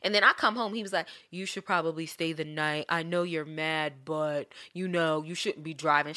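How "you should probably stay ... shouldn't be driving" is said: placating ex imitation. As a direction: imitate him calmly talking you down. Imitating ex's placating advice.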